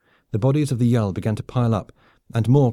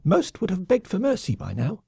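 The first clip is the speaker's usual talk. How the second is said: squeaky lemming threat; 10 semitones higher than usual. Acted. Lemming colonel threatens the off-worlder, high gloating squeak. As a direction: drag out the threat with relish. Vok continues.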